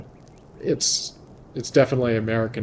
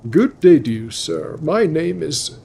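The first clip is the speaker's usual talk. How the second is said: NPC voice; 5 semitones higher, 6 dB louder than usual. Acted. Voicing another game NPC greeting.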